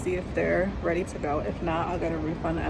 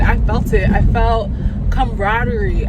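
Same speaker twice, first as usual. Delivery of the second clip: louder, higher, gushing praise; excited raving; 4 semitones higher, 8 dB louder than usual. Real, not acted. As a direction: rave about her like a fan. Raving about Viola Davis' acting.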